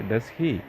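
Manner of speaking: "he" stressed as the tag's last word. Shown as a demonstration. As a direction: lean on "he" in the tag. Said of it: "I am giving more stress".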